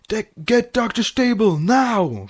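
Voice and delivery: high urgent call across the desk; husband yelling at the nurse desk. A narrator's reading. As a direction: demand the doctor now. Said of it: "Flash yelled".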